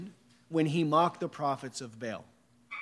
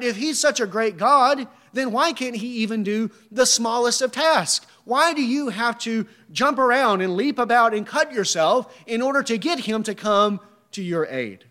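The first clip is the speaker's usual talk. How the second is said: impassioned preaching; 4 semitones higher, 3 dB louder than usual. Real, not acted. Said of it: "preaching at full force".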